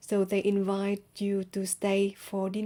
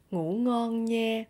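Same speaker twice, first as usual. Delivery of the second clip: slow Southern accent, "nha" held level; Southern Vietnamese accent; 2 semitones higher, slower than usual. Shown as a demonstration. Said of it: "in Southern accent, you can say".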